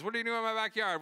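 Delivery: high, indignant mock challenge; be the neighbor catching trespassers; lightly voiced irritated neighbor; annoyed neighbor. Neighbor confronts them, retold.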